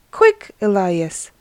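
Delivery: healed man urging Elias; urgent. Acted. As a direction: press him to hurry.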